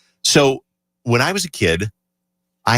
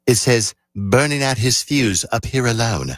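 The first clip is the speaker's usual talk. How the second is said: put-on British accent. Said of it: "in his charming British accent".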